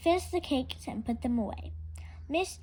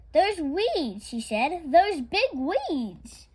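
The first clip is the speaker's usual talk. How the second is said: dismayed disbelief; 6 semitones higher, 6 dB louder, much slower than usual. Acted. Miss Emma stares at garden.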